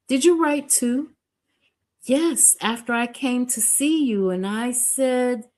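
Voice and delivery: put-on a young woman, surprised, then explaining quickly; puzzled young woman. Edna recounting her second letter.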